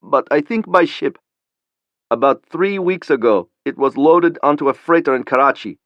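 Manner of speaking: put-on nervous young Pakistani. A narrator's reading. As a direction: voice him scared and unsure. Khalili voiced by narrator.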